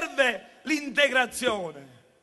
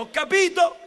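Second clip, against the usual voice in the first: ordinary talk, nothing marked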